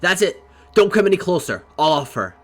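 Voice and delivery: hostage-taker shouting a threat at the door. Acted. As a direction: yell at them to stay back. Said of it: "he shouts".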